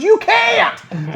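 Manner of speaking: very high, loud mock scream; imitated mad yelling. Jericho screams at the ref, imitated furious yell. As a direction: mimic a furious wrestler at breaking point. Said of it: "he was getting so mad".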